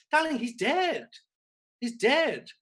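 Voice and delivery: high, loud exasperated cry; exasperated shout. Retold or imitated. To Mother over dead King Charles, loud exasperated cry. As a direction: blurt it out at her in disbelief.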